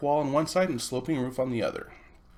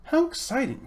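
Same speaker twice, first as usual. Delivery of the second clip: excited Polly; 12 semitones higher than usual. Acted. Polly's voice in read story.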